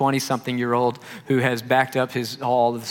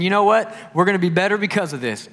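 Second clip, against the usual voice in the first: upbeat Southern; 6 semitones higher, 3 dB louder than usual. Retold or imitated. Larry cheering through the mess.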